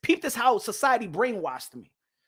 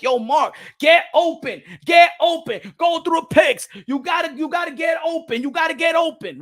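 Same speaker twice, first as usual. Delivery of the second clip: loud, high coach shouting at a player; coach yelling; 6 semitones higher, 4 dB louder than usual. Retold or imitated. Coach yelling at Mark to get open, loud shout. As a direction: bark it across the court like a coach.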